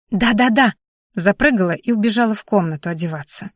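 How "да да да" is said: put-on excited child. Child eager to go home.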